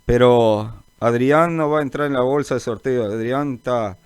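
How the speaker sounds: usual speaking voice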